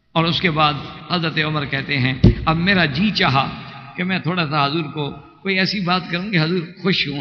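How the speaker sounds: ordinary delivery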